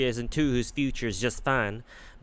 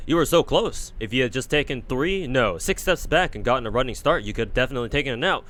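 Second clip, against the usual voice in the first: lightly voiced coaching knight; Percival with Karna treatment. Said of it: "the Karna treatment then".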